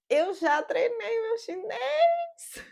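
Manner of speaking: high-pitched, slow, thrilled cry; gleeful proud shriek; excited squeal. Real, not acted. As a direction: squeal it out with delight. Excited brag about practicing Chinese.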